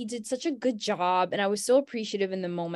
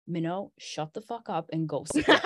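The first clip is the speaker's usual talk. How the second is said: inner voice scolding; 4 semitones lower than usual. Retold or imitated. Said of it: "the voice in my head was like".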